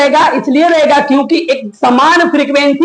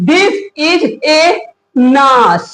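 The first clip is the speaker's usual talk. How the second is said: This is a nas drawn out slowly, word by word; slow wrong reading; much slower than usual. Shown as a demonstration. Teacher slowly reads the wrong version to the class. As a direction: stretch out "This is a nas" to show the mistake. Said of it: "ये गलत हो जाएगा".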